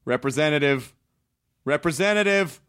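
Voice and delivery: building to a furious shout; screaming. Retold or imitated. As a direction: scream at the phone. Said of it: "I'm screaming at the automated voice".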